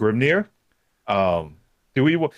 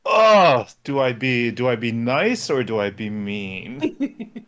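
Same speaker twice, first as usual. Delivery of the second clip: playful tease; slower than usual. Pretend. Teasing about stealing a pick.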